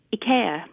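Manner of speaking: ikea as ih-KAY-a; original pronunciation. Shown as a demonstration. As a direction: put a "kay" in the middle of ikea. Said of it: "inverted commas".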